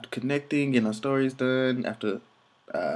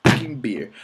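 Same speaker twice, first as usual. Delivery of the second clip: rowdy cheer; 4 semitones higher, 7 dB louder than usual. Retold or imitated. Crowd riled up for beer.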